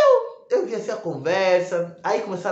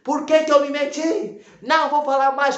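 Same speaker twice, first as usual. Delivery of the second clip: much higher, loud freaked-out yelling; retold outburst, much higher and louder; shouting; 10 semitones higher, 4 dB louder than usual. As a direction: yell it high in a panic. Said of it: "Começou a gritar".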